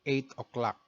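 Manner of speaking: "eight o'clock" as "et oklak"; clipped Tagalog-accented "eight o'clock". Shown as a demonstration. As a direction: show the learner the Tagalog way. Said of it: "in Tagalog pronunciation".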